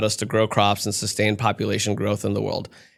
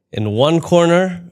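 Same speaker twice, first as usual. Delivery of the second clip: higher, slow drawn-out fight call; ring announcer; 7 semitones higher, 3 dB louder, slower than usual. Pretend. Comic playing announcer for the fight, big slow hype. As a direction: boom it out like a boxing ring announcer.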